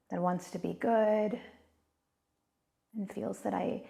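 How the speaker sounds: calm, unhurried meditation voice with long pauses; guided meditation. Real, not acted. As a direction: gently guide listeners inward, leaving space between phrases.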